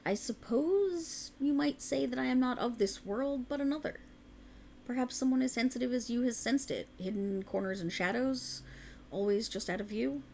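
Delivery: a fairy noble confiding a secret to a mortal; otherworldly fae. Acted. Fae ruler addresses a mortal.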